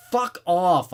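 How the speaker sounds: loud, angry snap; furious fuck-off at the intruder; barked. Acted. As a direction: bark it to shut him up. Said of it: "I barked".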